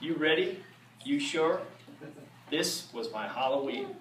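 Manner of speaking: rhythmic rhyming read-aloud, drawn out; storybook reading. Acted. Reading a Halloween rhyme aloud to the audience, spooky storytelling. Reads Halloween book to crowd.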